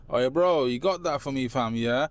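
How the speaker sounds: lightly put-on London street accent; a casual hint of inner London accent. Shown as a demonstration. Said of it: "in a London accent".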